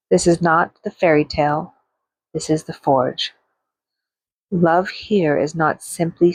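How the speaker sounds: measured free-verse reading, phrase by phrase; poem recitation. Acted. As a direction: read it as spoken-word poetry with deliberate pauses. Recites her second poem.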